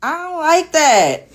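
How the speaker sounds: real drawn-out annoyance; irritated. Real, not acted. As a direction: draw it out, thoroughly displeased. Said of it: "It's so irritating".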